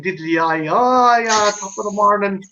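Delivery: hammed-up stereotypical Irish accent; mock stage-Irish. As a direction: imitate a tourist doing bad Irish. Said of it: "hope that people don't do".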